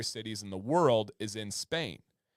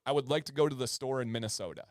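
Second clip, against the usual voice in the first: deliberate southern Michigan speech; faster than usual. Shown as a demonstration. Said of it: "a more deliberate, uh, way of speech".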